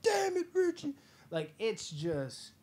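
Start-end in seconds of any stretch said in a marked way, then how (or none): 0.0-0.9 very high, louder put-on exclamation; mock exasperated. Bystanders reacting to Richie, high loud mock exasperation. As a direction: groan it out in frustration. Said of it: "they're like".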